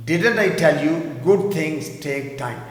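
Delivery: slow, stress on good; teacher repeats. Shown as a demonstration. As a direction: hit good. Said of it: "میں نے کہا تھا نا اچھی چیزیں وقت لیتی ہیں".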